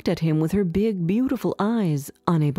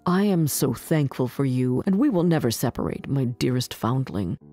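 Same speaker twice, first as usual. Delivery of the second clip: lightly voiced prince, pitched lower; 4 semitones lower than usual. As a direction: tell it as the prince, low and subdued.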